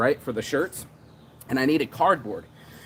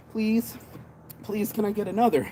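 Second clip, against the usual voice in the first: hammed-up begging for one more; pleading customer; 5 semitones higher than usual. Customer begging the seller for another, mock pleading.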